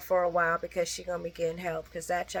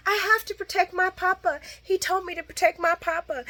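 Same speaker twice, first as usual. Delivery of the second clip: put-on high child voice; 11 semitones higher than usual. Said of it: "voicing Charlotte".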